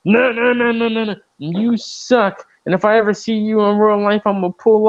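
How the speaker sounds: yelling high at the phone; mock yelling at someone online; shouting into a phone. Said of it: "you're like".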